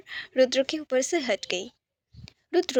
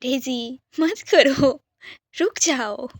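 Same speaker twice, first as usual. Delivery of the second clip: mild laughing protest, slow; half-laughing, drawn out; 4 dB louder, much slower than usual. Acted. Rudra being tickled, mildly laughing protest to Daisy. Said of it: "Rudra हंसते हुए बोला".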